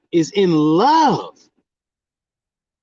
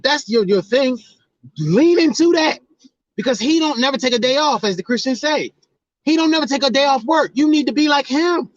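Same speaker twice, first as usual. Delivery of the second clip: high, driving sermon voice, pushing faster; fired-up preaching; 9 semitones higher than usual. Acted. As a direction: preach it like a street minister rallying the flock. Preaches a rising exhortation.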